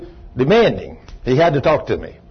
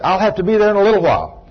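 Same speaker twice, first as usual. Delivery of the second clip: higher-pitched mild mock holler; retold holler; 8 semitones higher, 3 dB louder than usual. Worker on a lift answering the man below, retold holler. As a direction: call down to him, only lightly raised. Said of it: "I hollered at him and said".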